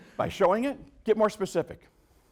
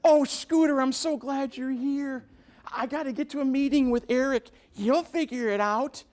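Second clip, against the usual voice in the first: rushed boss; 6 semitones higher than usual. Retold or imitated. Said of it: "Drive-by assignments here".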